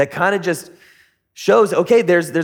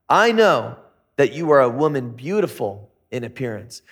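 flirty come-on; 5 semitones lower than usual. Acted. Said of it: "talking 'cause he's got game".

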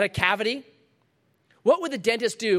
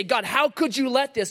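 higher-pitched, aggrieved question to God; indignant complaint; 6 semitones higher than usual. Acted. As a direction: protest to God, voice raised in pitch. Voicing people's complaint to God.

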